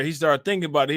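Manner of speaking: ordinary talk, nothing marked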